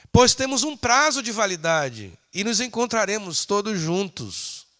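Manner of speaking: forceful pulpit appeal; emphatic preaching. Acted. Preacher making life's limit clear to beloved brothers, emphatic. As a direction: press each phrase home, then let it fall.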